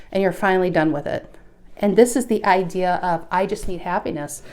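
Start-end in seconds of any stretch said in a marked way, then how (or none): 3.3-4.4 breathless, airy words; out of breath. Real, not acted. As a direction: speak short of breath. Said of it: "Maybe that's why I'm so out of breath".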